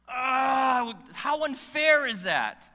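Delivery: high, loud hammed-up wail, slow; mock crying. Pastor to the congregation about his ticket, mock crying. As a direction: fake sob of self-pity, played for laughs.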